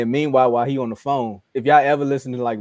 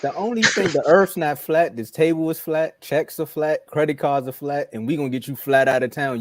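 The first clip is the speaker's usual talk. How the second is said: mock owner scolding; 3 semitones higher than usual. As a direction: threaten him like a fed-up owner. Owner scolding Kyrie in imitation.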